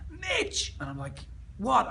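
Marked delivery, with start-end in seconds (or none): 0.1-0.7 high calling scream of his name; retold scream. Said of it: "I hear Ange scream". 1.6-1.9 loud, higher called reply; calling back. Retold or imitated. Calling back to his wife.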